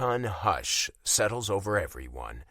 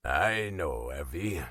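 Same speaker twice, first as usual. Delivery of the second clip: tender father; 4 semitones lower, slower than usual. Acted. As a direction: answer your daughter gently. Father tenderly answering his daughter.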